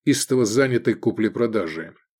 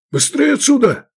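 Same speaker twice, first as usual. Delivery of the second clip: much higher, louder bark to flee; barking order; 7 dB louder than usual. Acted. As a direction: bark at them to run. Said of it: "рявкнул Красноголовый".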